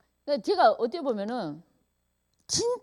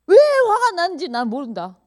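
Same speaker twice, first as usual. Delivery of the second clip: louder, 왜 hit hard then falling; stress on 왜; 4 semitones higher, 6 dB louder than usual. Retold or imitated. Quoting the husband to friends, 왜 stressed and falling. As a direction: punch 왜 and let the line fall. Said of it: "제가".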